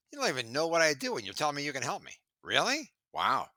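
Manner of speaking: mock incredulous Really, then a flat Wow; exasperated. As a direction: scoff at the pitch. Exasperated rant at salespeople.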